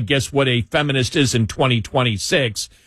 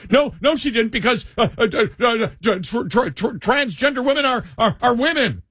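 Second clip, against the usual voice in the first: high, whiny mock outrage; squeaky stammering imitation of critics; mocking high-pitched protester; 10 semitones higher than usual. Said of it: "Oh, people went nuts".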